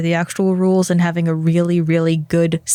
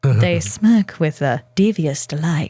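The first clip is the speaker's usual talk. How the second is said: lower, dramatic game narrator voice; Baldur's Gate 3 narrator; 3 semitones lower than usual. Retold or imitated. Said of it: "Baldur's Gate three narrator".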